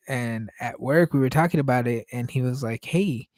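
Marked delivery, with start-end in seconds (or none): 2.8-3.3 puzzled challenge. Retold or imitated. Coworker questioning his pronunciation.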